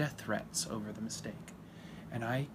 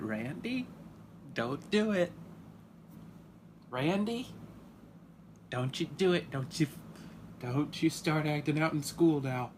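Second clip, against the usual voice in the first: a mild stern-parent scold, pitched up; stern warning; 3 semitones higher than usual. Retold or imitated. Father warns son Randy not to act out, mild stern scold. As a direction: warn him off like a strict dad.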